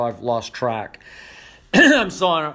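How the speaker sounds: hoarse, with a throat clear; strained, worn-out hoarse voice; losing voice. Real, not acted. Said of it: "I'm losing my voice".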